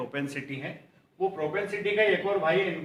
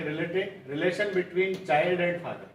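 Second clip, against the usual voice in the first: धीमी dictation; much slower than usual. Shown as a demonstration. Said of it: "dictates the meaning slowly".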